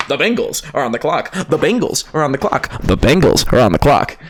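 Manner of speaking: lightly mimicked announcer call; draft announcer. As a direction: repeat it like a bored game announcer. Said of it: "so I would just constantly hear".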